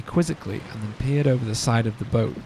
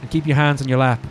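a hint of an Irish grandpa warning his grandchild; Irish accent; 4 semitones higher than usual. Irish grandfather urgently warning the child on the boat, light Irish accent. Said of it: "Should I do it in the Irish accent?".

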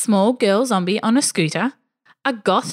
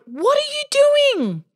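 much higher, pitched-up alarmed call; alarmed yell. Retold or imitated. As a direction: call after her in alarm. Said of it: "I yelled".

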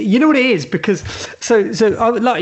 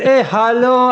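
fake singer call; 4 semitones higher, slower than usual. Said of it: "it just sounds so fake".

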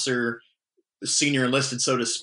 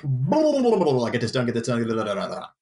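panicked rapid orders; faster than usual. Retold or imitated. Fire officer mocking his own panicked orders, hurried. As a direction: rattle it off like a rushed fire boss. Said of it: "it sounds like I'm panicked".

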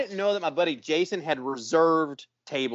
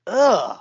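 disgusted groan, a little higher; disgusted ugh; 5 semitones higher, 4 dB louder than usual. Retold or imitated. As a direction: let out a revolted "ugh". Disgust at unwashed boys' sweat.

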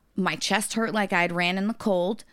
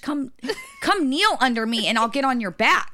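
desperate inner voice; 6 semitones higher, 3 dB louder than usual. Retold or imitated. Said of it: "I'm thinking in my head".

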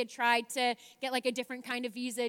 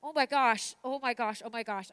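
starts loud and excited, then fades down to a hushed murmur; 4 dB louder than usual. Shown as a demonstration. Showing viewers exactly how she reacted, fading from excited to hushed. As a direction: let the excitement drain away over the three repeats. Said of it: "here's exactly what happened".

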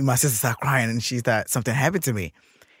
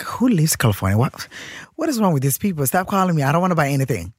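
higher, exasperated mock complaint; acted irritation; 5 semitones higher than usual. Grumbling to self about unwanted sales calls, mock exasperation. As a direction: act out being fed up with callers. Annoyed reaction to unknown caller.

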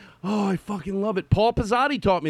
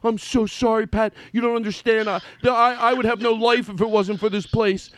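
a lightly hammed-up sorry, pitched higher; groveling apology impression; 4 semitones higher than usual. Mocking his friend grovelling to the bar owner for forgiveness. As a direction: beg forgiveness like a scolded kid. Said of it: "here's my impersonation of you".

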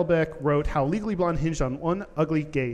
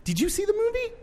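surprised question; faster than usual. Real, not acted.

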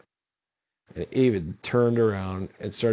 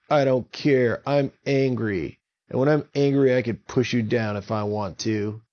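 angry; 3 dB louder than usual. Acted. Avon declares he's angry.

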